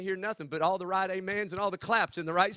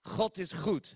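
laughing take; slower than usual. Shown as a demonstration. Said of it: "repeated laughing".

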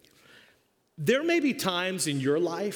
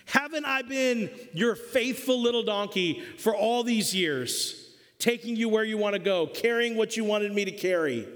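higher, pleading voice of a hurt little donkey; talking donkey; 5 semitones higher than usual. Acted. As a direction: play the loyal donkey asking why he is being hurt. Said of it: "this donkey said".

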